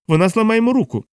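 high, sharp outburst from Gutierrez. A narrator's reading. Hunter bursts out at narrator over his friend, high-pitched. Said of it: "вибухнув Гутєрес".

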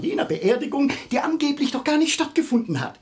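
heated triumph over the inspector; agitated. Acted. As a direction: push the point home, worked up. Agitated accusation against the old man.

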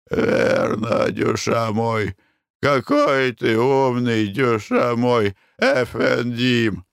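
put-on slow, drawn-out Armenian accent. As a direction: drawl "дюша мой" with an Armenian accent. Karapet praises Nikolai.

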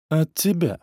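ordinary delivery, nothing marked

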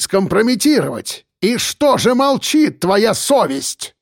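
furious mayor yells at the journalist; shouting mayor. Acted. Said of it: "Он кричал уже почти в упор".

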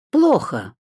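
a hint of a gruff older man, high and loud; blunt verdict from the boss. A narrator's reading. Иван Аркадьевич, старый начальник. (лёгкий голос пожилого начальника)

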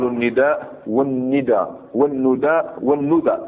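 "النداء والندى والندى والندى" spaced out slowly, each vowelled differently; four variant pronunciations. Shown as a demonstration. Teacher citing the dictionaries, "النداء" in four forms, slowly varied. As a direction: slowly contrast nidaa, nida, nudaa, nuda. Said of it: "في المعاجم تجد".

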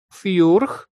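high, rising pitiful chirp; plaintive creature query. A narrator's reading. Little monster checking an order, plaintive questioning squeak. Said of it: "жалобно уточнил Жгутик".

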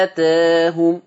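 آتاهم slow, a tilted toward e; slow chant of آتاهم tilted; long madd, tilted. Shown as a demonstration. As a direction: recite آتاهم with taqleel. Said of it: "أدي فتح وقلل".

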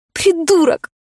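high sharp hiss; hissed insult. A narrator's reading. Heroine snaps at the smug man, high hissed insult. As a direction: spit the word at him. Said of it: "шикнула я".

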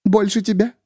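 high, broken woman; tearful hush. A narrator's reading. Miriam crying to the narrator, high broken. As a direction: say it through tears. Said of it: "Её голос стал почти неслышимым".

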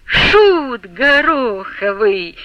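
kind, gentle exclamation. A narrator's reading. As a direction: scold him with good-natured affection. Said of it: "вскрикнул Чепурин добрым, мягким голосом".

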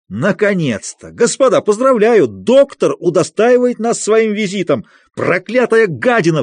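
high, loud, furious mocking cry; frenzied shriek. A narrator's reading. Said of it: "взвизгнул он и в исступлении".

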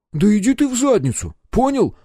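high, loud indignant engineer; indignant outburst. Acted. Engineer snaps back at the captain, loud high indignation. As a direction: blow up at the captain. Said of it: "Возмутился он".

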